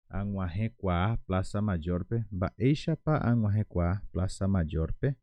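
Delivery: "Baeishapa" and "kwa" stressed, with the final "Mayorpe" rising; slow, clear accent on "Baeishapa" and "kwa"; stress demo. Shown as a demonstration. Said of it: "acá hay que tener un acento también". (con acento en "Baeishapa" y "kwa", despacio)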